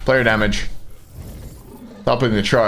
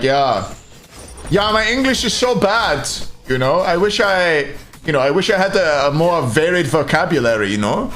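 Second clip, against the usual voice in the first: lightly imitated German speaking fluent English; German-accented mock self-deprecation; 3 semitones higher than usual. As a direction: modestly lament in a German-accented voice. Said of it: "Germans are the worst for it. They're like".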